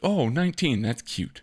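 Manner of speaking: dismissive scoffing quote, pitch jumps up on oh; lightly imitated sneering radio host; mock scoff. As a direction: brush it off like a snob. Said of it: "him just scoffing at".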